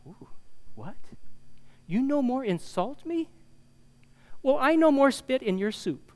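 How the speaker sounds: high-pitched mock waiter with broken English; foreign waiter. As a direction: deliver it as a comic waiter's punchline. Acted waiter with accent, joke punchline.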